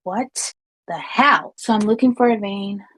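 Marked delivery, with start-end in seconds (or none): 0.0-1.5 drawn out slow, bewildered; slow stunned disbelief. Retold or imitated. Watching coworker baby talk, slow stunned disbelief. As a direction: let it hang in slow disbelief. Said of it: "And I'm just like".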